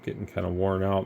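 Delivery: talking through a yawn; tired yawn mid-sentence. Real, not acted. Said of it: "The guy's got me yawning here".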